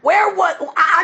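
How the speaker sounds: high, loud rhetorical yell; shout. Real, not acted. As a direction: cry the question out to the crowd. Yelled rhetorical question.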